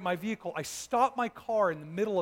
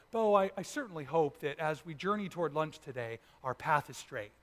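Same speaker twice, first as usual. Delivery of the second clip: mock formal speech; 4 semitones lower, 3 dB quieter than usual. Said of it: "I don't ever talk that way".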